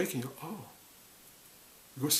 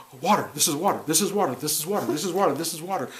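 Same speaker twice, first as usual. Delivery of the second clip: crazy fish; 3 semitones higher, 3 dB louder, faster than usual. Retold or imitated. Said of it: "what a crazy fish that would be".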